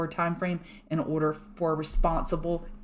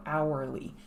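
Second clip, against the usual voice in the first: "hourly" said slowly and clearly, syllable by syllable; slow careful hourly; 3 semitones lower, 5 dB quieter than usual. Shown as a demonstration. Trader slowing down for her viewers, saying "hourly" carefully. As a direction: stretch out "hourly" so it doesn't blur. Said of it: "So I have to say it slower".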